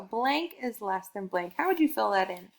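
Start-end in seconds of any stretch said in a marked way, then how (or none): 0.0-1.5 slow, spelled-out sentence frame; slow model sentence. Shown as a demonstration. Teacher to young learner, slow sentence frame. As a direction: lay out each word for the child. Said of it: "tell me which one is less".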